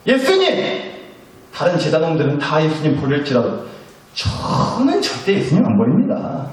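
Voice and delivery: self-assured disciple pledging loyalty; confident Peter. Acted. Peter vows to Jesus never to abandon him, confidently. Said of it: "그렇게 자신 있게 말했던 베드로".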